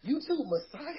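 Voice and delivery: high sarcastic jeer; mocking sneer. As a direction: scoff at the title in disbelief. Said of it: "This is a promo".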